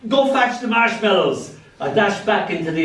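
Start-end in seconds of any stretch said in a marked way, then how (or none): 0.1-1.5 higher, urgent mock screech of mum; a lightly hammed-up frantic mum. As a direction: mum shrieking an order. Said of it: "Mum screeched".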